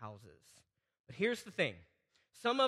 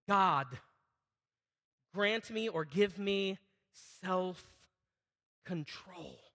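earnest prayer; 2 semitones lower, much slower than usual. Shown as a demonstration. Models a prayer to God.

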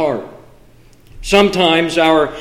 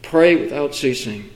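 "Pray without ceasing" repeated softer and lower; softer echo; 4 semitones lower, 5 dB quieter than usual. Acted. Preacher repeating the verse to himself, softer. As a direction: echo the verse back quietly. Repeated softly after pause.

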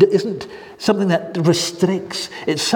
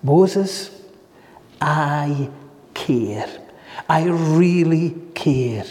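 God, tender; 2 semitones lower, much slower than usual. Acted. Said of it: "God tells Moses".

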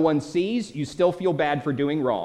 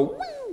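high, soft falling-off-a-cliff whoop; high "woo"; 9 dB quieter than usual. Retold or imitated. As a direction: imitate sailing over the edge with a soft high woo. Imitates going over a cliff.

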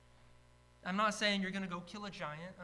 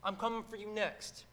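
trash talk; 4 dB louder than usual. Retold or imitated. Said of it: "he's a trash talker".

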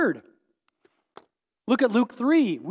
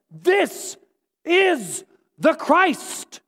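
slow, higher, word-by-word declaration; emphatic proclamation; 4 semitones higher, much slower than usual. Retold or imitated. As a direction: proclaim it slowly, each word set apart. God's proclamation, quoted emphatically by preacher.

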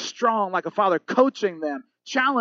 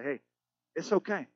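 calm reassurance; 6 dB quieter than usual. Retold or imitated. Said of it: "calm and quiet voice".

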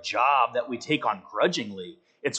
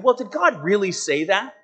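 higher, questioning lilt with weight on really; insinuating question, pitched up; doubting tempter; 6 semitones higher than usual. Acted. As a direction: plant doubt with a raised question. Voicing the tempter questioning God's word.

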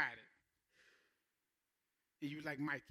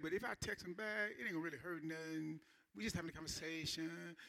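mock rationalizing; 3 semitones lower, 8 dB quieter than usual. Mock inner voice justifying texting.

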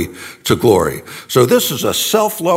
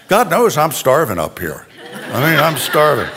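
laughing. Real, not acted. Joking about being hungry.

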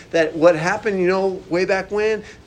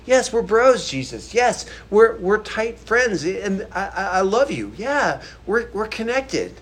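brotherly Peter; 3 semitones higher than usual. Retold or imitated. Preacher voicing Peter answering Jesus, eager and warm. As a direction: gush it out like a devoted friend. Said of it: "He responds with this brotherly love".

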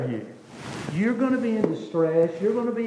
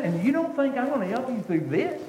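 offended God; 5 semitones higher than usual. Acted. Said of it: "I can see God be offended".

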